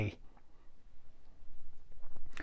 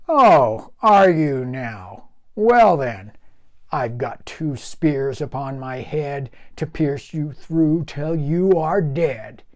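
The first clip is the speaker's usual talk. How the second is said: dangerous growl; 4 dB louder, slower than usual. Acted. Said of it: "voice dropped to a dangerous growl".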